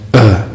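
a short, mild imitated grunt. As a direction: grunt it out like a grudging officer, lightly. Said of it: "He grunted".

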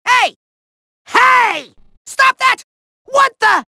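high, startled protests; flustered villain outcry; indignant yelping. Acted. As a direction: object in short outraged bursts. Villain being roughly handled.

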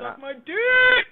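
shouting. Real, not acted. Taunting during a match.

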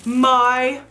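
high, drawn-out exclamation; overwhelmed excitement. Real, not acted. Vlogger seeing her dream shoes first time, overwhelmed. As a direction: stretch each word in thrilled awe. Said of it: "I'm, like, so excited".

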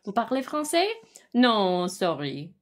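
lightly imitating the clip's French waiter in a French accent; a hint of French accent, then a quick non; mock French accent. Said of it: "It's like".

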